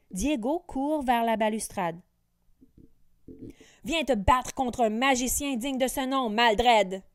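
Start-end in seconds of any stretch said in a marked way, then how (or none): 3.8-7.0 loud, challenging taunt; defiant. Acted. Diego challenging the wicked wizard, defiant call. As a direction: dare him to fight. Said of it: "lance-t-il sur un ton défiant".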